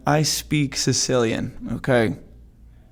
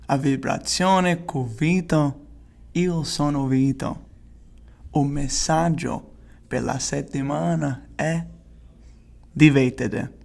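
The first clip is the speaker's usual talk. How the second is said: Italian show intro. Acted. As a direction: open the show like an Italian host. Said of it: "That intro was fire".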